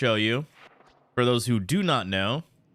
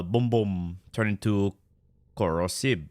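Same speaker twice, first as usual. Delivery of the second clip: light Filipino accent; 4 semitones lower than usual. Shown as a demonstration. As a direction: slip a Filipino accent into the words. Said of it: "Filipino accent over the".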